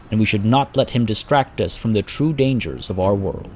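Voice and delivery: measured dramatic fantasy narration; storyteller's voice with deliberate pauses; story narration. A narrator's reading. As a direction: tell it like an epic war chronicle. Narrates a fantasy war tale.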